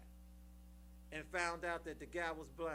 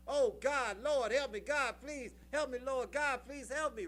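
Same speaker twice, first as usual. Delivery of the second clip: loud, high mock scream of a falling man; retold scream for help; 4 semitones higher, 5 dB louder than usual. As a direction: cry out to God loudly, half acted. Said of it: "he started screaming".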